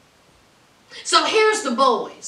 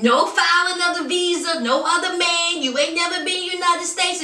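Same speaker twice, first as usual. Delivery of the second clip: higher-pitched run-through of a list; retold list of points; 5 semitones higher, faster than usual. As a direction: rattle off each item a bit higher. Retelling his rapid-fire list.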